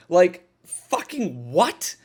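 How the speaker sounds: slow, drawn-out exasperated what; stunned at how absurd the scene is; baffled disbelief. Real, not acted. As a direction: let the disbelief hang on what, rising.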